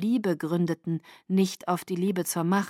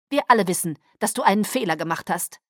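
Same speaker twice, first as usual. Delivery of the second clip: curt, cutting and a bit louder; brusque; 4 dB louder, faster than usual. Acted. Kaius curtly accuses Irina of her mistake, brusque. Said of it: "sagte er schroff".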